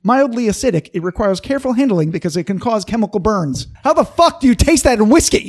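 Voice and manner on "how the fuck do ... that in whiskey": exasperated. Real, not acted. Ranting about a silly tasting note.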